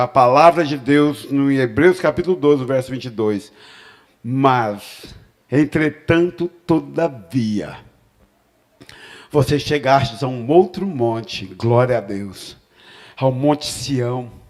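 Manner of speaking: slow, smooth, silky voice, "mas" drawn out. Reading a bible verse aloud to listeners, in a velvety voice. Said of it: "com voz aveludada".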